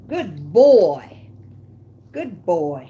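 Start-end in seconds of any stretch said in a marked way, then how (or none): 0.1-1.3 loud praise. Real, not acted. Praising dog after he eats.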